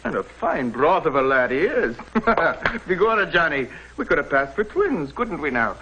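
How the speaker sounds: put-on Irish accent. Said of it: "Except for me Irish mother".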